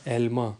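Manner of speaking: ایلما said as two parts, El-ma; dua bagian. Shown as a demonstration. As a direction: sound out ایلما in two clear pieces, El and ma. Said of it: "دو لفظوں میں اس کو".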